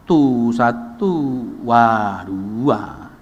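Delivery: very slow mock Madurese count. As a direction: drag each number out. (menghitung sangat pelan ala orang Madura)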